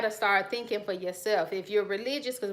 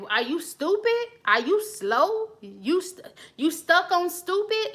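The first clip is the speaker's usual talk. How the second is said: mock cussing out; 8 semitones higher, slower than usual. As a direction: snap it like a pretend tirade. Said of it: "if I'd have cussed them out".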